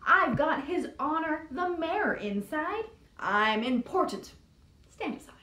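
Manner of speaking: lightly hammed-up self-important voice; a hint of pompous boasting; snooty. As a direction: limo showing off its mayor. Boastful limousine.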